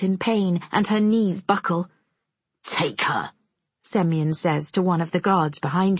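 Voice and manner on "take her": curt order. A narrator's reading. Semyon orders guard.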